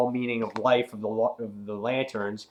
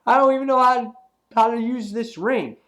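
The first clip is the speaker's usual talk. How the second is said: hammed-up panicky squeal; panicked hero; 11 semitones higher, 6 dB louder than usual. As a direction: voice jumps high and loud in mock panic. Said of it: "He's like".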